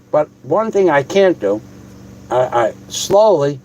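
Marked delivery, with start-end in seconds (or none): 2.3-3.6 slowly. Shown as a demonstration. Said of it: "Warren said slowly".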